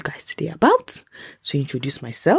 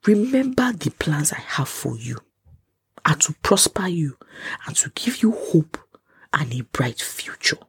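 tender whisper. Retold or imitated. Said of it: "He now said".

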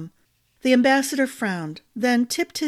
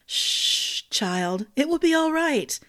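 soothing; 6 semitones higher than usual. A narrator's reading. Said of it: "Ambrose smiled".

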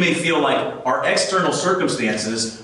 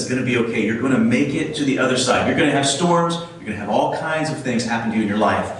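reassuring Jesus; 3 semitones lower, faster than usual. Acted. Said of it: "to you and me, he says".

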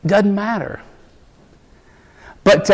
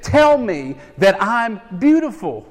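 put-on little girl voice; 6 semitones higher than usual. Voicing daughter again.

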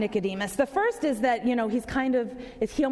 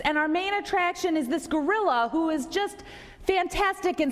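a touch higher, proud showman bragging; lightly voiced circus boss; 5 semitones higher than usual. Circus owner boasting to the sad executive, lightly raised showman voice. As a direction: brag about your star gorilla a bit higher.

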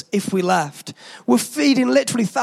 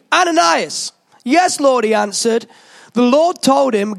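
raised, declamatory Bible reading; scripture reading. Acted. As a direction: read it out like proclaiming scripture. Reads Acts passage.

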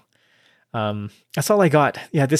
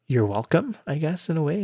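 whispered; 3 semitones higher, 5 dB quieter than usual. Real, not acted. Joking whispered aside.

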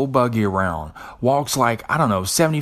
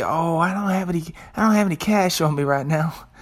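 high, airy excuse voice, much higher; shopper's excuse; 7 semitones higher than usual. Retold or imitated. Shopper dodging the bake sale table, high fake-innocent excuse. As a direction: put on a fake-innocent brush-off. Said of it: "You say".

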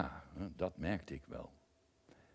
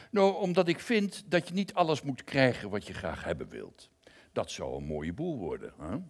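lightly voiced lion, higher and louder; a hint of a lion lecturing kindly; lion's voice; 3 semitones higher, 6 dB louder than usual. Lion explains his view to the narrator, lightly voiced and raised.

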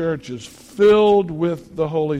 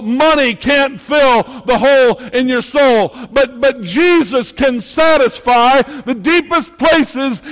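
high, loud revival preaching; full-force preaching; 7 semitones higher, 10 dB louder than usual. Acted. Pastor rousing the congregation in loud preaching. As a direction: whip the crowd up.

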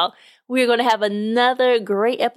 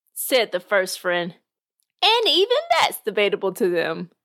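lively storyteller reading a podcast tale; measured read-aloud narration; story narration. Acted. Reads a short story aloud.

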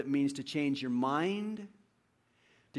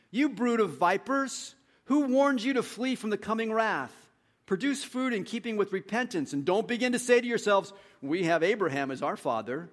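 reading John's rebuke with a raised, higher voice; prophet's rebuke; 4 semitones higher, 3 dB louder than usual. Acted. Preacher reading John the Baptist to the crowds, stern rebuke. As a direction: call the crowd out like a wilderness prophet.

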